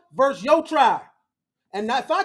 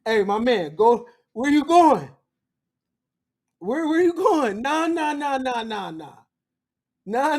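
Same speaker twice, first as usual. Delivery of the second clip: mock street hustler. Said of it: "Anthony stopping John".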